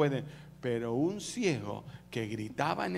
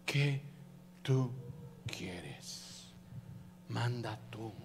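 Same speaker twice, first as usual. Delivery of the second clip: low, soft, word by word; God's hushed question; 5 semitones lower, 9 dB quieter, much slower than usual. Acted. God answers the one who fasts, hushed and spaced. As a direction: pause between words, fading to a whisper. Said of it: "El ayuno provoca el decir de Dios".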